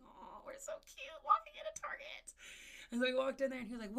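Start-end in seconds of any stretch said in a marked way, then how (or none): 0.1-2.3 high airy whisper. Retold or imitated. Aunt walking in holding her nephew's hand, whispered. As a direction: whisper it sweetly to herself. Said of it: "I'm like".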